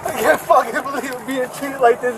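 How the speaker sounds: high, strained outrage; distressed angry shout. Real, not acted. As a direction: yell it out in disbelief. Detained man shouts distressed.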